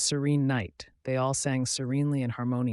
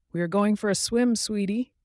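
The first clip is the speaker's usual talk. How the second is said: much higher, fast and bright mother duck; gentle mother duck; 9 semitones higher, 6 dB louder than usual. Acted. Mother duck answers her duckling, gentle and quick. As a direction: answer the little one sweetly. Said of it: "the mother duck replied gently".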